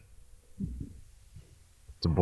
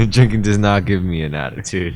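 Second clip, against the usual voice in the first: mocking imitation; 5 dB louder than usual. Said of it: "mimics friend".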